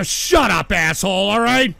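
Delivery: sudden angry shut up; angry snap. Real, not acted. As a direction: snap back at the heckler. Yelling at a donation voice.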